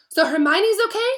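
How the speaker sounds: high, loud and hopeful; bright. A narrator's reading. Ron asking after Hermione, high bright hope. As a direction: perk right up. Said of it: "said Ron brightly".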